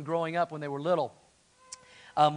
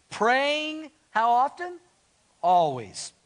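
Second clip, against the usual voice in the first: emphatic call-out; 6 semitones higher, 7 dB louder, much slower than usual. Acted. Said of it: "underline these first two words".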